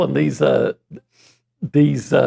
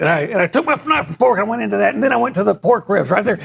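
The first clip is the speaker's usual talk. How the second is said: mildly higher, fast, excited breakdown voice; a light take on an eager football analyst; Jim Turner impression; 5 semitones higher, faster than usual. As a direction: hype up the barbecue like a play breakdown. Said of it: "How would he do it?".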